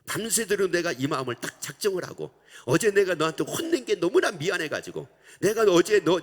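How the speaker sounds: loud exasperated scolding, near tears; mother scolding. Retold or imitated. Mother confronting her child, loud and tearful. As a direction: pour out the grievance, rising and loud. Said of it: "라고 얘기를 하니까".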